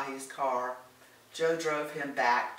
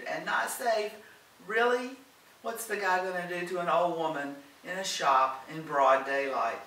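higher, louder scoffing questions; incredulous; 5 semitones higher, 5 dB louder than usual. A narrator's reading. Helen scoffs at the warning from Doris, incredulous. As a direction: dismiss the danger in disbelief.

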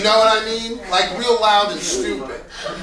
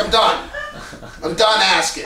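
put-on sulky teenager. Shown as a demonstration. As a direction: sulk like a thirteen-year-old. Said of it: "like a thirteen-year-old".

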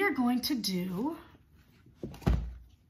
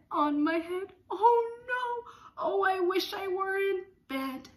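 mock alarm; 9 semitones higher, 5 dB louder than usual. Mock distress in song.

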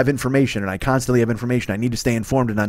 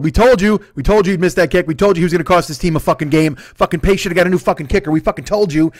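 loud, high mock gloating; gloating Bears fans; 5 semitones higher, 4 dB louder than usual. Imitating smug Bears fans crowing at the speaker. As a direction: rub it in like a smug fan who called it. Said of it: "they marinated it. They were thrilled".

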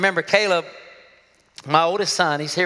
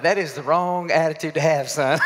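laughing stern dad; 7 semitones lower than usual. Retold or imitated. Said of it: "I'm like".

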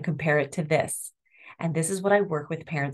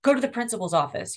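mock stern order; 5 semitones higher, faster than usual. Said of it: "is what I get from".

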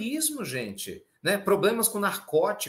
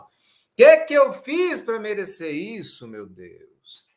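mock wailing lament; 2 semitones higher, 9 dB louder, slower than usual. Spouse lamenting the marriage to God, mock wailing. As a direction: wail it theatrically, then collapse on the last words.

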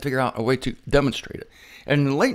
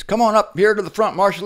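raised voice calling her to the front; husband calls wife to the stage, loud; 5 semitones higher, 4 dB louder than usual. Retold or imitated. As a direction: call her up across the room.

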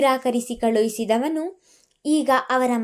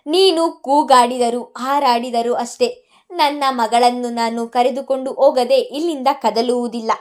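shouting back; 4 dB louder than usual. Acted. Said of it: "ಈ ಬಾರಿ ಸೊನಾಲಿ ಕೂಡ ಕೂಗಿದಳು".

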